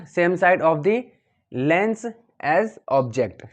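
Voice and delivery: calm repeat of the phrase, a little slow; teacher repeats the correct phrase, somewhat slow; slowish repeat. Shown as a demonstration. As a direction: say it again steadily for the class. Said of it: "आपको बोलना है".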